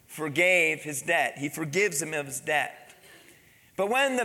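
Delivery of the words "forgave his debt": forgave drawn out slowly for the congregation; slow down on forgave so they can join in; stressed word. Shown as a demonstration. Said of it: "say the next word with me".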